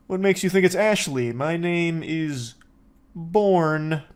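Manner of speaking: lightly voiced caller acting casual; a hint of a slow, cool denial; imitating playing it cool. Mimicking the drunk caller dodging the police. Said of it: "she's trying to play it cool".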